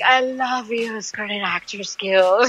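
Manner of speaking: slow, high, swooning thanks; hammed-up gratitude to the union; mock relief at a residual check arriving; mock gushing thanks. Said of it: "you're like".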